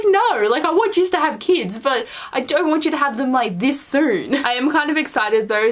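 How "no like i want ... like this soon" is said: pleading reaction. Retold or imitated. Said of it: "And I'm just like".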